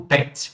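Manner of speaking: "pet" with a short, quick vowel. Shown as a demonstration. Teacher contrasts vowel length for students, "pet" said short. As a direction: say "pet" short, cut straight to the t. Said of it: "Pronúncia curta".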